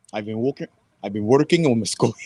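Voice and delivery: faltering try at a Scottish accent; attempted Scottish accent. Shown as a demonstration. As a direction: try Scottish, breaking off mid-phrase. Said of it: "been working on my Scottish accent".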